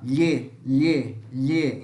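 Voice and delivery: palatal "lhê" with the tongue on the palate; LH sound. Shown as a demonstration. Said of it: "o nosso L H".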